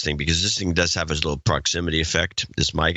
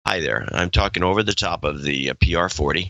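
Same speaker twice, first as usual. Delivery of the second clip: talking over the mic top; 4 semitones lower than usual. Shown as a demonstration. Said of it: "Now we wanna hear the Alex Inc version".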